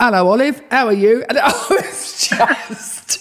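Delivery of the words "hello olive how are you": mocking, pitched-up Cockney accent. Recalling how her father mocked her in the kitchen each morning, imitating cockney dad. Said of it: "my Cockney dad would look at me".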